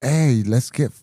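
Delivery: slow, drawn-out party invitation; imitating party bros. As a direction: stretch it out like a partying bandmate. Acts out touring bandmates proposing partying.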